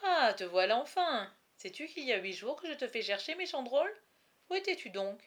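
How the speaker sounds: jovial lord, high and lively; exuberant, swooping mock scolding; youthful gaiety. A narrator's reading. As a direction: greet him with hearty, teasing delight. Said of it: "la juvénile gaieté de Guilhem Arnal".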